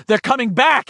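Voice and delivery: high excited cry; urgent shout. A narrator's reading. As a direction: wants to shout the news. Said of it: "he wanted to shout".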